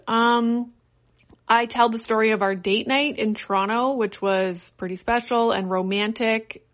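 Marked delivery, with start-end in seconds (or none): 3.9-6.7 sarcastic. Real, not acted. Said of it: "I'm saying romantic and being sarcastic".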